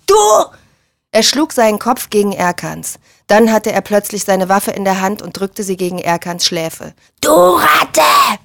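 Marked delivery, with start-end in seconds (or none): 0.1-0.1 short angry burst; furious jab of a word; roared accusation. A narrator's reading. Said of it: "brüllte er". 7.2-8.4 loud, high furious shout; enraged, raised yell; roared insult. A narrator's reading. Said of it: "brüllte er".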